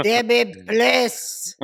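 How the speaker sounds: slow, loud pleading in a put-on Arab accent; mock Arab accent. Boyfriend begging upstairs at night, mock Arab accent. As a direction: imitate an Arab boyfriend, drawing out each word. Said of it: "with that Arab boyfriend".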